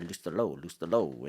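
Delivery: "Loustalot" lightly imitated with a long o ending; imitated French pronunciation. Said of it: "it was so thick and heavy French".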